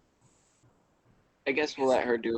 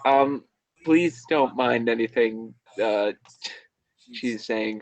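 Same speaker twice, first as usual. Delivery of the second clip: embarrassed Tobin; 6 dB louder, slower than usual. Acted. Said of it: "she'll be like".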